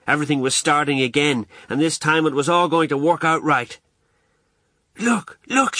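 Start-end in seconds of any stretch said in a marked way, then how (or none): 5.0-5.8 high, eager call for attention; excited Ma. A narrator's reading. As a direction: excitedly show off a new purchase, pitched high. Ma excitedly shows her purchase.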